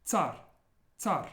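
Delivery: \"tsar\" dengan R ketukan tunggal yang lembut; tapped soft R. Shown as a demonstration. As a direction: ketuk R sekali di akhir \"tsar\". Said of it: "almost like a, just a tap".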